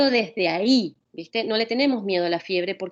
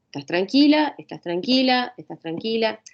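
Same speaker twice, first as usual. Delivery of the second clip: insistente; 4 semitones higher than usual. Shown as a demonstration. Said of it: "es bloquearlo lo más rápido posible".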